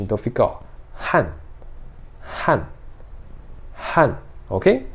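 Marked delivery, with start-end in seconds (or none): 1.1-2.6 han falling fast and hard; short, forceful falling han; fourth-tone han. Shown as a demonstration. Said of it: "ele desce rápido, desce forte". 4.0-4.1 han falling fast and hard; short, forceful falling han; fourth-tone han. Shown as a demonstration. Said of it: "ele desce rápido, desce forte".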